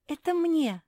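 high, loud gasp of delight. Acted. Marsia receiving the green dress, delighted gasp. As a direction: gasp at the gift. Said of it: "ахнула Марсия".

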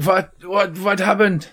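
lightly acted waking daze; disoriented Carl. Game master voices Carl coming back to life, disoriented. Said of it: "disoriented, and he's like".

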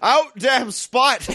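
slow, drawn-out stage line; mock Lady Macbeth. Stripper declaiming Macbeth, slow and hammy. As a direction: stretch it out like grand theater.

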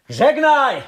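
furious curse. Acted. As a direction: hurl the curse after her at the top of the voice. Son curses departing mother.

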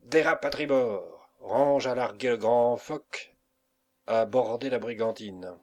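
loud barked orders; captain shouting to the crew; stentorian voice. Acted. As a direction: bellow orders across the deck. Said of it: "cria Carnot d'une voix de stentor".

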